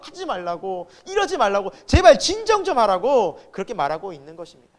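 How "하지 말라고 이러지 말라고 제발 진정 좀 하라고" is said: acted pleading. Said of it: "아론과 모세가 막 엎드려서".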